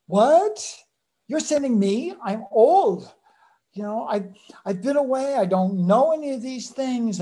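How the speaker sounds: high, loud, disbelieving outcry; startled old man pushing back; incredulous protest. Retold or imitated. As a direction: voice Moses balking at the call. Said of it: "Moses had emotional whiplash".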